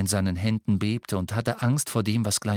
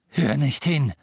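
harsh; 4 semitones higher, 5 dB louder than usual. Acted. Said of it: "sagte Harry barsch".

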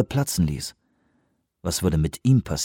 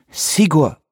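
imploring; 7 semitones higher, 3 dB louder than usual. Acted. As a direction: call his name higher, pleading. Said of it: "sagte Lee beschwörend".

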